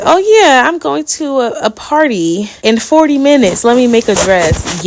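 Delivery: high, loud "oh yeah", easing down; mock crafty girlies. Girlies announcing a last-minute party dress, lightly mimicked. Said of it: "The girlies who be like".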